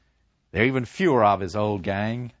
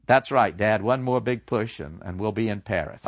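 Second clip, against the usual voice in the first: dutiful son. Acted. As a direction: agree with no conviction. Son answers without conviction.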